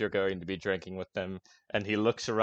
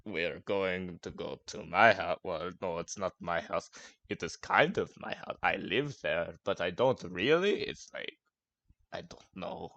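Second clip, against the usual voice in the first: put-on drunken ramble; 5 semitones lower, 5 dB quieter than usual. Gronk rambling to the party about his house. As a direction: lose the thread as you go. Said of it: "he goes".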